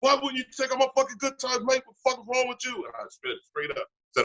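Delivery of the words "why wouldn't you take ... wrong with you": furious outburst, high, pitched way up rant. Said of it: "clearly not in a very good mood".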